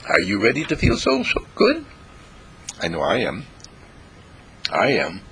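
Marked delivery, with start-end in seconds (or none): 0.1-1.8 rousing. Acted. Rousing question to listeners.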